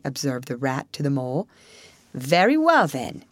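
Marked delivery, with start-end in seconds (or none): 2.1-3.2 lightly firm, settled tone; firm badger. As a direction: badger decides on force. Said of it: "said the badger firmly".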